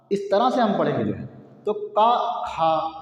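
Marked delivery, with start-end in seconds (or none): 1.7-3.0 का quick, खा with more breath and length; teacher demo of aspiration; short vs aspirated. Shown as a demonstration. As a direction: contrast का light with खा breathy. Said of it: "का बोलने में कम समय लगा और खा बोलने में ज़्यादा".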